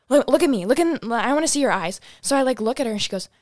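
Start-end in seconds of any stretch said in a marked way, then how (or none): 0.1-2.0 loud insistent command; mom demanding. Retold or imitated. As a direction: demand she look, loudly.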